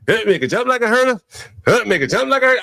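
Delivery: mocking repeat. Host parroting the song, mock singsong.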